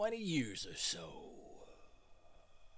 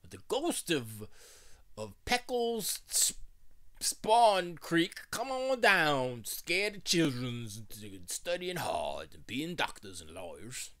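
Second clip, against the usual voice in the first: put-on old porch storyteller; 4 dB louder, slower than usual. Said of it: "an old wise old man on the porch".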